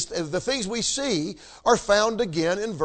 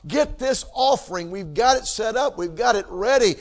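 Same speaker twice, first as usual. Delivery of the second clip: eager invitation; 2 semitones higher than usual. Retold or imitated. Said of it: "It was".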